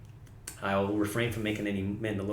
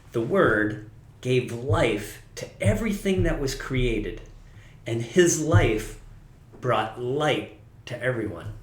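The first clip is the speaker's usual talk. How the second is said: scripture reading. Acted. Reads scripture verse slowly.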